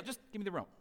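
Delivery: soft, offhand request; gentle, no big deal. Retold or imitated. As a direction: ask quietly, playing down the issue. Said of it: "not gonna make a big deal".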